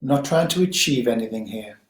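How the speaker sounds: calm, unhurried guiding voice with long pauses; guided meditation. Acted. Teacher guiding listeners to settle on the breath, guided meditation. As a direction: gently settle listeners, leaving space between phrases.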